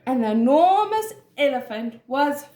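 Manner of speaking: measured, expressive storybook narration; story reading to children. A narrator's reading. Teacher reads an animal story to children, expressive storytelling. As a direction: read it clearly for young listeners.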